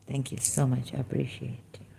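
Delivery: soft whispered thanks. Real, not acted. Thanking viewers at the end, whispered. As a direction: breathe the thanks gently.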